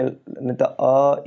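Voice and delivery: अ stretched slowly into a long vowel; long vowel demo. Shown as a demonstration. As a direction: drag out अ to show it long. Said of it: "बड़ा उ, बड़ा यानी दीर्घ स्वर हो जाएगा". (अ को लंबा खींचकर बोलना)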